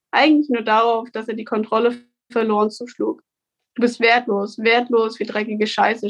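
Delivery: reading her own story aloud; measured, steady book reading; story narration. A narrator's reading. Author reads her book aloud.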